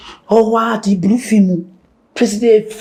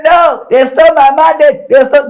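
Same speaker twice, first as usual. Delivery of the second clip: half-shouted protest, a bit louder; mock outcry; 4 semitones higher, 5 dB louder than usual. Mimicking a politician complaining, mildly raised. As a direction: play the aggrieved politician crying foul. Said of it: "You say".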